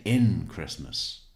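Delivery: Maryland phrasing. Retold or imitated. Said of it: "They say".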